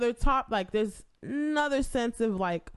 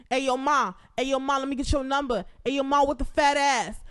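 mock catcaller; 3 semitones higher, 3 dB louder than usual. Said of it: "niggas that be catcalling".

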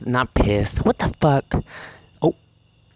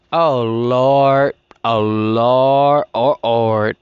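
exasperated sigh; 4 dB louder, much slower than usual. Real, not acted. Exasperated exclamation, repeated.

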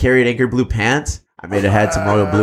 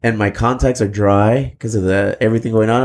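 stoned; 2 semitones lower than usual. Real, not acted. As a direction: drag it out a little, stoned. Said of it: "I'm fucking high".

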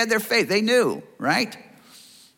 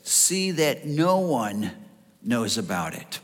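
slow, low, stern command, softer at the end; stern warning; 6 semitones lower, 4 dB quieter, slower than usual. Retold or imitated. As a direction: warn them sternly, close up. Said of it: "he was in their face".

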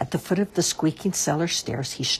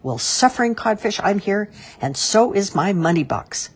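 higher, triumphant announcement; grinning triumph; 6 semitones higher, 4 dB louder than usual. A narrator's reading. Mister Whiskers reveals himself to the crowd, triumphant. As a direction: crow it out with a grin. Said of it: "stood in grinning triumph".

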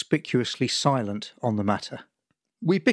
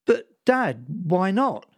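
pleading son; 6 semitones higher, slower than usual. Acted.

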